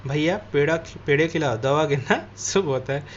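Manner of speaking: a light laugh breaking into the end; cheerful neighbour chuckling as she speaks. Acted. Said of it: "फिर हंसते हुए बोली".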